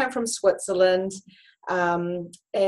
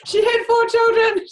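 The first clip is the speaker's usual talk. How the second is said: laughing; 14 semitones higher, 7 dB louder than usual. Real, not acted. Laughing at her own slip.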